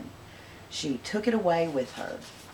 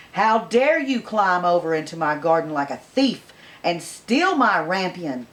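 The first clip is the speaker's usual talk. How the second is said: furious witch scolding a thief; loud, slowing scold; angry witch; 6 dB louder than usual. Acted. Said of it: "as she cried with angry eyes".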